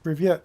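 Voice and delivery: Привет said loud, stress on the last syllable; Russian hello. Shown as a demonstration. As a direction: greet with a bright Привет. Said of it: "That is hello".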